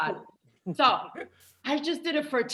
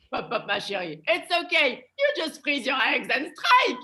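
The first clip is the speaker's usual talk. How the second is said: French inner voice; 3 semitones higher than usual. Acted. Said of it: "The French like".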